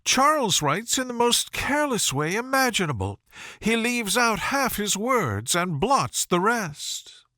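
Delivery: high, mocking society lady, last line hushed; Miss Bingley teasing. A narrator's reading. Miss Bingley mocking her brother's letters, teasing. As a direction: tease her brother, ending in a whisper.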